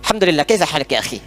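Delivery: low-pitched put-on Arab accent; imitation of fluent Arab speech, pitched low; imitated Arab accent. Shown as a demonstration. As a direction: greet a brother like a native Arabic speaker. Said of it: "bahasa Arab kayak orang Arab".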